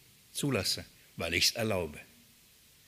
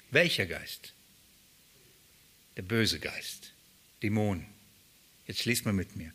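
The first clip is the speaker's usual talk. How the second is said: ordinary delivery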